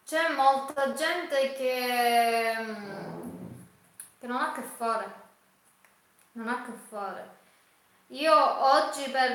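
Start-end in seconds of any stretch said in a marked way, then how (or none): 0.0-5.2 holding back tears, slowly; tearful. Real, not acted. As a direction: voice breaking with tears. Emotional speech about judging others.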